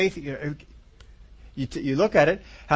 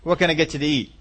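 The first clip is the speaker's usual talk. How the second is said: mock gracious master; 3 semitones higher than usual. Master of the house fawning over his tired servant, mock sweet. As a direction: fawn over the servant like a too-kind master. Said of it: "how many of you masters of the house would say".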